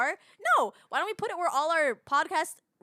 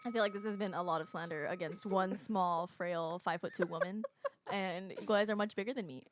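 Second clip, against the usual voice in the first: soft, small pitiful voice; hammed-up poor-me murmur; mock pitiful plea; 9 semitones lower, 9 dB quieter than usual. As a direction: play the helpless little victim, softly. Playing small frail victim.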